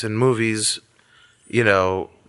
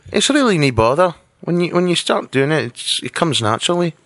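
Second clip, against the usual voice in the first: Scottish accent; 3 semitones higher than usual. Shown as a demonstration. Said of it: "Do you do a Scottish accent".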